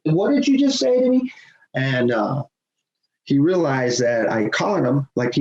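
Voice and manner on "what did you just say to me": retold outrage. Repeating the confrontation.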